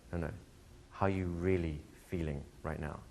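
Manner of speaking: soft, understated coach's question; gentle probing. Retold or imitated. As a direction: probe quietly, without pushing. Voicing coach probing a client.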